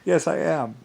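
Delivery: high, loud, through a laugh. Real, not acted. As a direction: laugh out the confession. Laughs while admitting it.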